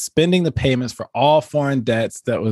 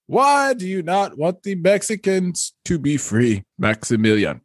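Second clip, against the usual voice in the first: town crier; 4 semitones higher than usual. Acted. Moderator asks French side.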